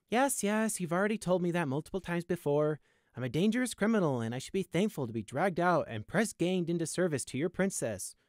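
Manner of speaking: high-pitched, sarcastic recital; weary-of-hearing-it mockery; impatient retort. A narrator's reading. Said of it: "he retorted".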